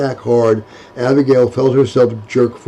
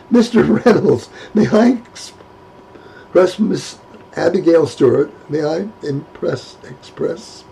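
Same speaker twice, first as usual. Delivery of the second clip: stuttering through laughs; 4 semitones higher than usual. Acted. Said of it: "laughing and stuttering".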